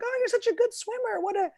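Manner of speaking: put-on high-pitched praise for a small child; gushing, high baby-talk praise; encouraging. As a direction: coo encouragement at a little kid. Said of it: "trying to encourage him".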